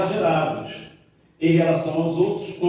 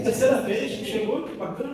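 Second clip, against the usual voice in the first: higher-pitched, falsely courteous praise; mock-polite complaint; 6 semitones higher than usual. Spouse greets a late partner's third time, mock-polite and high. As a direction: put on polite approval over a grievance. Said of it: "ficar educado e falar assim".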